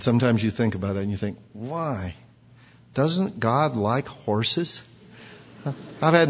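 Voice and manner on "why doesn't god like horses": soft, slow puzzled wondering; mock puzzled question. Preacher voices people puzzled about God and horses, soft and slow. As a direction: ask it like a naive doubter.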